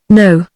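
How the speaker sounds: a firm, flat "No," set down hard; emphatic. A narrator's reading. La refusing Van Horst's request, emphatically. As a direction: shut him down with one word. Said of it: "she replied emphatically".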